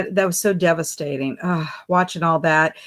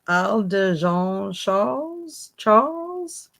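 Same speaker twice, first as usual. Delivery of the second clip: slow French-style try; much slower than usual. Shown as a demonstration. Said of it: "Am I supposed to put an accent?".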